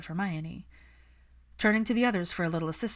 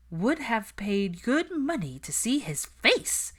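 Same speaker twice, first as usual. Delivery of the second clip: chuckling; 6 semitones higher, slower than usual. A narrator's reading. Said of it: "Susan chuckled".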